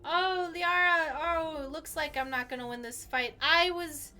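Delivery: slow, hammed-up dying gasp; milk the dying words; overacted death scene. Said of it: "She died very dramatically".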